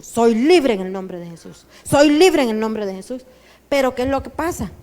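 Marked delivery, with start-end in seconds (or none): 0.0-3.2 confident reply. Shown as a demonstration. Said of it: "¿sabe cuál debe de ser su actitud?".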